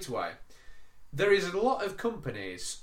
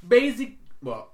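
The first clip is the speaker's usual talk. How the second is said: imitated Indian accent; 8 semitones higher, 8 dB louder than usual. Agent voiced in phone story.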